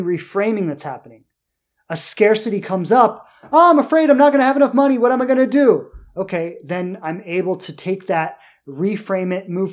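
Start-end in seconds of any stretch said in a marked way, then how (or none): 3.5-5.9 high, loud and rushed, mock-panicking about money; panicked inner voice. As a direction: blurt the worry fast like a frightened inner voice. Voicing his own money panic.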